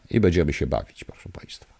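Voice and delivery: whispered, gloating threat; hushed, gleeful menace; menacing whisper. Real, not acted. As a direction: lean in and whisper the promise. Gleeful threat after angry rant.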